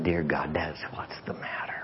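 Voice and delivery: soft, low realization in prayer; hushed prayer. Retold or imitated. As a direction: retell a humbled prayer, sinking to a hush. Retold humbled prayer on knees.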